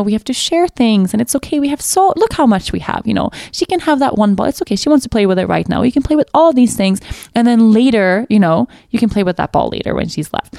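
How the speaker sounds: put-on patient, reasoning gently with a toddler; a mother calmly talks her daughter through sharing; calm explaining. Mom calmly explaining sharing to her upset toddler. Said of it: "in this calm sense".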